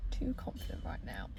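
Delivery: self-conscious whisper; hushed so strangers won't hear; whispering in a car park. Real, not acted. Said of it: "I'm in a quiet car park, and there's people, like, kinda looking at me".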